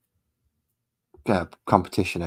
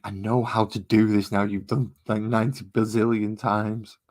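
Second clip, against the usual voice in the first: mildly exasperated mock complaint; dragging out the exaggerated count; fed-up viewer; 3 semitones higher, 4 dB louder than usual. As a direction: imitate a viewer who's seen it all. Voicing a bored, fed-up viewer.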